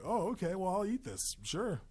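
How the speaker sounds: eager scavenger. Pretend. The shadow accepts your leftover failure, eagerly. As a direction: play a willing scavenger taking leftovers.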